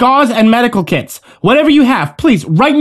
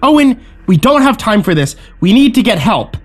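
higher-pitched, insistent plea; urgent reasoning; 8 semitones higher than usual. A narrator's reading. Yen reasons with an armed Owen, urgent pleading. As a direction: plead with them to see sense. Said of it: "Yen tried to reason with him".

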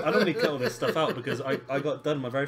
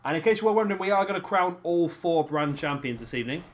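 card announcer. Acted. Host announcing the evening's matches to viewers, announcer voice. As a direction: run through the card like a TV host.

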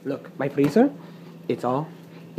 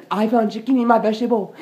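indignant repeat; 4 semitones higher than usual. Pretend. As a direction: say it again with rising outrage. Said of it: "someone going to pay".

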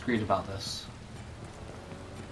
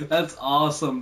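laughing; 3 semitones higher, 4 dB louder than usual. Real, not acted. Laughs after near miss.

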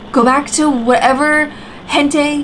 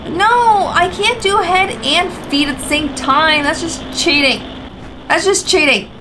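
frustrated whine; 5 semitones higher than usual. Real, not acted. Complaining the game cheats.

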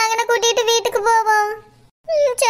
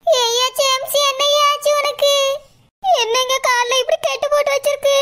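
tearful, slightly raised voice, voice wavering; crying wife; 3 semitones higher than usual. Acted. Wife seeing her injured husband at the airport, tearful. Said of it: "அழாத".

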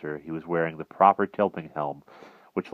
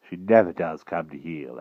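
put-on blustering old knight; 3 dB louder than usual. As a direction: bluster like a dotty old king. Pellinore voice.

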